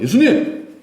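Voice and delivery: high, urgent call of protest. Acted. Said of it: "예수님을 붙들고 항변했다".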